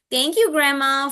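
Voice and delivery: lilting example of thanking; modeled thanks. Acted. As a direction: demonstrate thanks for a child to copy. Models recast for child.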